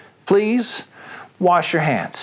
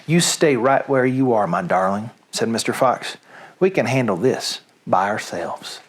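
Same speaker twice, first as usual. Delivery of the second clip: tender father fox; 5 semitones lower than usual. Acted. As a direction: gently tell his wife to rest. Mr Fox comforts his weak wife.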